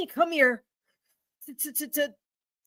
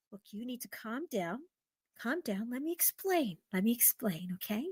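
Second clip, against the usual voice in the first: much softer, lower begging; timid pleading; 4 semitones lower, 14 dB quieter than usual. Acted. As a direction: beg him to listen, hushed. Woman softly pleads to explain.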